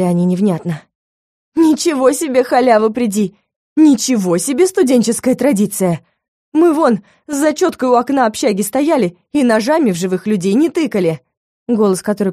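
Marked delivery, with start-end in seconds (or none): 1.6-11.2 indignant. Acted. Heroine indignant at students.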